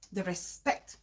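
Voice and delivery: fading repeat. Real, not acted. Repeating the last virtue to viewers, trailing off softly. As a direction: let the respect fade away.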